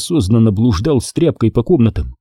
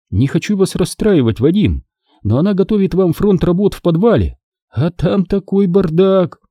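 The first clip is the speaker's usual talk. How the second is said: put-on raised, playful young woman; pitched-up female voice; Kira's voice; 8 semitones higher than usual. A narrator's reading. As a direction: warn him teasingly, slowing at the end. Kira's voice, higher.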